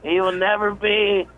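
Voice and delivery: high, strained mock scream; Sam screaming. Sam on the radio about the kid who bombed, imitated screaming. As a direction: imitate an outraged comic screaming, far above your own pitch. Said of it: "okay, he's screaming".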